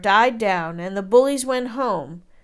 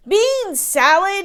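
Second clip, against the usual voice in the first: higher, louder, slow outraged question; dismayed cry; 10 semitones higher, 6 dB louder, slower than usual. A narrator's reading. Giant hears he gets beans again, outraged. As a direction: howl it in disbelief. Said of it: "he cried".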